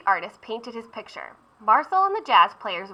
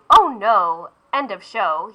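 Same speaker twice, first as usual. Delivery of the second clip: yelled; 6 dB louder, slower than usual. Acted. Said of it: "The beignet boy yelled".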